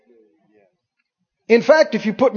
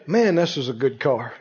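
softer, lower, content; speaking blessing; 6 semitones lower, 5 dB quieter than usual. Shown as a demonstration. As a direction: praise the car quietly. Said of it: "But if you say".

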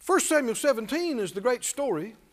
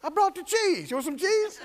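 put-on innocent boy; 8 semitones higher than usual. David offers cheese.

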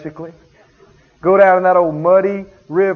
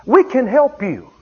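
firm counsel; 3 semitones higher than usual. Retold or imitated. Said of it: "But I said".

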